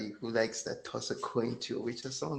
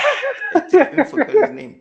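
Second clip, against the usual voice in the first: high, loud laughing speech; laughing hard; 14 dB louder than usual. Real, not acted. Co-host admits forgetting the actor's name, laughing hard. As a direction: squeal it out through laughter.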